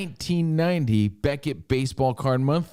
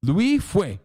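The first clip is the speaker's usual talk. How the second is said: punched-up mock-Asian accent on the name; exaggerated Asian emphasis; 5 semitones higher than usual. Shown as a demonstration. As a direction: hit the name hard in a hammed-up Asian accent. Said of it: "You gotta put a little emphasis on it".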